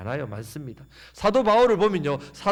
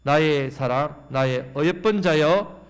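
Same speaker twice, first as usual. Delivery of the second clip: slow, drawn-out reading; scripture reading; slower than usual. Acted. Preacher leading the church in reading, slow and drawn out. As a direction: read it slowly, swelling at the end. Congregation reads Song of Songs.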